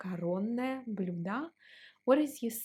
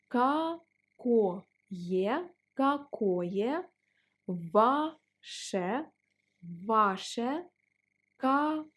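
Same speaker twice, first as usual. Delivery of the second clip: slow polite drill; slower than usual. Shown as a demonstration. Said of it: "If you want to sound more polite".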